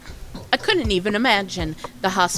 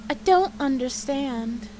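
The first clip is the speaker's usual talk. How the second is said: a light hint of the woman's voice, slow; her voice; 5 semitones higher than usual. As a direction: read it slowly, as she would talk. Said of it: "talking like her like this".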